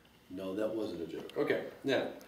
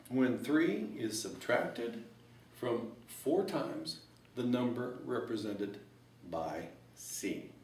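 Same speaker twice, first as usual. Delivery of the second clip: slow math speak; slower than usual. Shown as a demonstration. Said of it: "in math talk".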